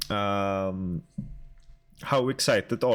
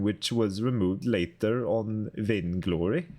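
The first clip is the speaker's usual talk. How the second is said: put-on terrible Swedish accent; slower than usual. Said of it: "terrible Swedish accent".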